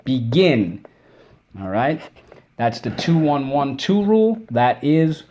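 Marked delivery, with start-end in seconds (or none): 0.1-0.8 "Begin" with the stress on GIN; accent on second syllable. Shown as a demonstration. Teacher shows the spelling rule, stressing second syllable. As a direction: lean firmly on the GIN of "Begin". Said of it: "accent on the second syllable".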